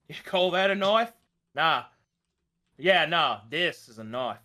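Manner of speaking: hammed-up Dundee impression; Crocodile Dundee quote. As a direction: quote the famous Aussie film. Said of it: "The legend of the Aussie Metsu".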